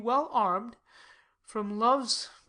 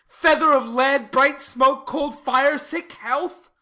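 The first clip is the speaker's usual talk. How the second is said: passionate outburst; 6 dB louder than usual. Acted. Romeo's passionate oxymoron speech.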